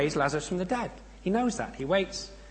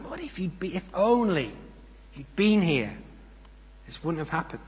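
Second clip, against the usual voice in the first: mild mournful reproach; pleading lament; 2 semitones higher than usual. Acted. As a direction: plead gently with the Lord. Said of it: "Notice the pathos in that".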